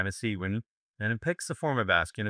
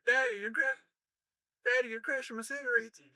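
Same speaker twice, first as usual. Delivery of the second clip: much higher, softer mock Welsh girl; 4 dB quieter than usual. Coach retells the joke as a Welsh girl, much higher. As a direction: pipe it up as a teenage Welsh girl. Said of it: "fourteen-year-old Welsh girl says to her lover".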